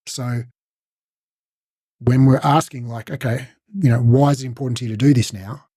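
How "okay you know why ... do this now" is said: flat, uninterested question; bad tonality. Shown as a demonstration. Coach showing clients the wrong tone. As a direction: ask it like you don't care. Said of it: "that's bad tonality".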